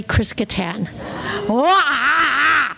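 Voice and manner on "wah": mock wail. Comedian reacting to famous classmates, mock wail. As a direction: let out a big comic wail.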